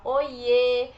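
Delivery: loud, stretched-out happy hello; happy affectionate greeting. Shown as a demonstration. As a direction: draw out "Oiê" with delight. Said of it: "É quando a gente tá feliz".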